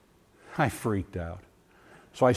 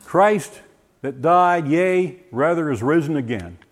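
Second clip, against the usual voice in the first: solemn recitation; slower than usual. Retold or imitated. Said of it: "repeats the verse".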